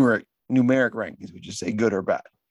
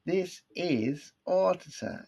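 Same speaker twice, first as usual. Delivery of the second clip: high, slow mock-British announcement; mock British accent; 6 semitones higher, 6 dB quieter, slower than usual. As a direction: stretch it out in a put-on British accent. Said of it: "like, an English accent".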